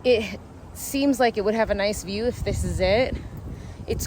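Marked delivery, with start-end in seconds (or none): 0.0-0.4 out of breath. Real, not acted. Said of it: "I'm out of breath from having to get".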